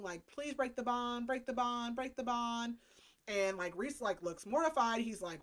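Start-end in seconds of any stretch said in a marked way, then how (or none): 0.3-2.8 slightly raised, pleading repetition; mock begging. Feyre begging the king, lightly acted pleading. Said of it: "She starts begging the king".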